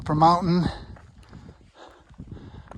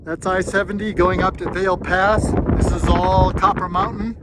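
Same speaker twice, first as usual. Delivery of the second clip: raised voice, pushing over the wind; shouting over wind; 2 semitones higher, 3 dB louder than usual. Real, not acted. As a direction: call out over gusting wind. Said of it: "if you can hear me over the wind noise".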